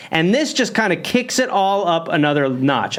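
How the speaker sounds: normal talking voice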